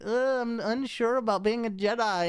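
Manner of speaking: high, timid, whiny hero; mock a spineless whiner; whiny wimp voice. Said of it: "He's just so wimpy".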